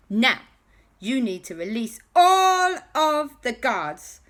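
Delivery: high, loud, deliberate proclamation; triumphant heroes. Acted. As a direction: declare a grand ultimatum to the villain. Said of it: "And they went".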